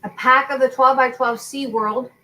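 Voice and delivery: talking while crunching ice; words round a mouthful of ice; chewing ice. Real, not acted. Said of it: "sorry, I'm chewing ice".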